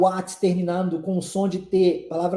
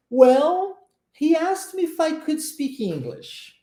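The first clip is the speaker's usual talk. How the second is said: high, light model phrase with "Well" raised; high model delivery; 7 semitones higher, slower than usual. Shown as a demonstration. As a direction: say it high and drawn out, as the friend would. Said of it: "vamos pra frase". (frase modelo dita bem aguda, com "Well" alto)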